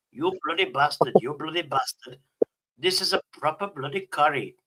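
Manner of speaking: lightly imitated Pakistani accent; a hint of a mock Pakistani accent. Shown as a demonstration. Man showing the AI what to say, light Pakistani accent. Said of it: "do a Pakistani voice going".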